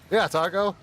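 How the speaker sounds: playful Australian accent demo; mock Australian. Shown as a demonstration. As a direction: belt out "Yeah, Taco" as a show of Aussie talk. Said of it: "Tell me something in Australian".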